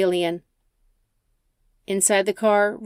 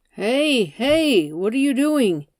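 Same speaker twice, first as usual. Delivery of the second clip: higher, alarmed protest; alarmed Jason; 5 semitones higher, 3 dB louder, slower than usual. Acted. Jason sees the knife raised at him, alarmed. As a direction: back off from the knife.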